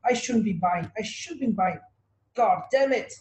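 scared trader. Retold or imitated. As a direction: act out a nervous buyer second-guessing. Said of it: "it's just scared".

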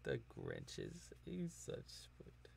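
hushed, very soft whisper; whispered aside. Real, not acted. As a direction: whisper it slowly under your breath. Whispered aside about the Grinch.

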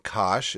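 cosh as one syllable, "kahsh"; spoken short form. Shown as a demonstration. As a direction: say cosh as a word rhyming with "gosh". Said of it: "is how we say hyperbolic cosine".

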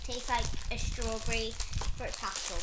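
talking while eating sweet; chewing candy. Real, not acted. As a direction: mouth partly full. Seen 4: Girl in pink bites red sweet near +0.7, keeps eating while talking.

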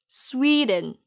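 스웨덴 as "SWEE-dn", shorter vowel; repeat-after-me 스웨덴 with weak ending; pronunciation drill. Shown as a demonstration. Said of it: "그럼 같이 발음해 볼까요".

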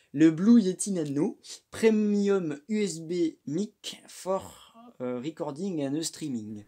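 reading the English label with a strong French accent. Real, not acted. Reading the mic box aloud to viewers, heavy French accent in English. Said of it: "Mais quel super accent anglais".

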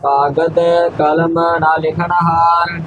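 scripture recitation. Acted. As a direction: recite it evenly on one note.

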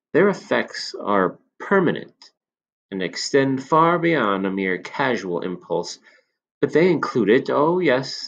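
put-on a knowing old shopkeeper confiding; old man. Old man praises potion.

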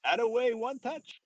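put-on high, loud, drawn-out French-accented call. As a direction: tease a teammate in a hammed-up French accent. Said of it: "goes in his French accent".

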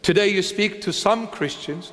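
emphasis landing on "some"; single out the word "some" with weight; stress on SOME. Real, not acted. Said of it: "make an emphasis on the word some".

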